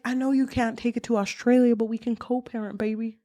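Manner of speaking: lightly crooning suitor voice; a hint of a smooth-talking charmer; a famous singer. Boyfriend proposing to co-parent a cat, lightly voiced smooth charmer. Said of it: "Okay, Elvis".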